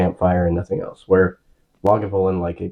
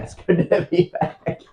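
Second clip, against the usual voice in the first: silly put-on voice; 9 semitones higher, slower than usual. Repeats line in odd voice.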